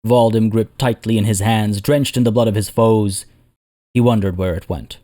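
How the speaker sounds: measured dramatic fantasy narration; storyteller's voice with deliberate pauses; story narration. A narrator's reading. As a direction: tell it like an epic war chronicle. Narrates a fantasy war tale.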